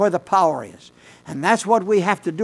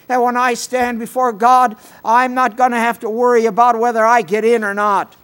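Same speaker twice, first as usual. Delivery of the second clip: fervent proclamation; 4 semitones higher, 5 dB louder than usual. Real, not acted. Preacher proclaims his assurance.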